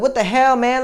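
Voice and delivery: high, loud exasperated cry; re-enacted high-pitched outburst; retold yelling. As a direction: yell it in pained disbelief. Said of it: "like, yelling and".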